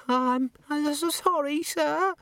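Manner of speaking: very high, tremulous apology; frightened. Acted. Mildred faces Vimes's questions, frightened and apologetic. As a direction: stammer it out slowly, close to tears.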